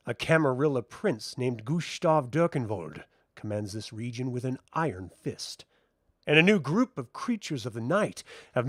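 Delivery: ominous documentary intro; documentary narration. A narrator's reading. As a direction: set the scene like a dark nature documentary. GM narrates the setting.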